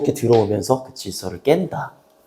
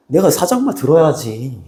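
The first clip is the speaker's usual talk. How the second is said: bossy boss; 4 semitones higher than usual. Retold or imitated. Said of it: "이러면서 막".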